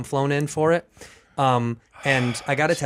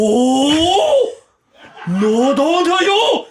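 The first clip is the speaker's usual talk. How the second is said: loud, high, drawn-out caricature Asian accent; hyperbolized Asian accent; 12 semitones higher, 7 dB louder, much slower than usual. Shown as a demonstration. Comic making his friend mad, hyperbolized Asian accent. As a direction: wail it in an absurdly exaggerated Asian accent. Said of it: "a hyperbolized version".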